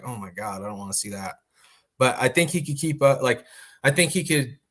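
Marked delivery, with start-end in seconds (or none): 0.0-1.4 unenthused aside. Retold or imitated. Voices his unimpressed reaction to matchups.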